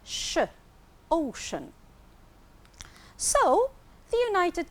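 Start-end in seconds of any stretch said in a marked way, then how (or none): 0.0-1.7 ocean with the c said sh; sh sound in the middle of ocean. Shown as a demonstration. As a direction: give the sh, then say ocean with it. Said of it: "here we pronounce the sea, sh".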